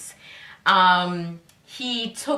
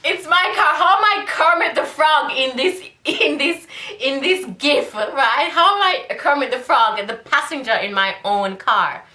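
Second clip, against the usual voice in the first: indignant disbelief; 5 semitones higher than usual. Retold or imitated. Indignant retelling of gif.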